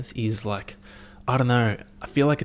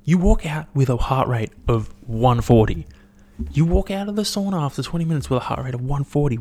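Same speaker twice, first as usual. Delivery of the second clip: quoting himself at the sauna guy, fast and raised; scolding a sauna regular, hammed-up disbelief; mock outraged mate; 4 semitones higher, 4 dB louder than usual. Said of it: "And I was like".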